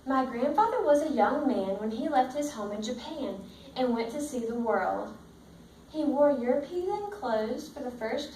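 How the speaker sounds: steady storybook read-aloud to the class; reading to children. Acted. Teacher reading the book to her class, in a steady storybook voice. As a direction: read it out like a picture book for the kids.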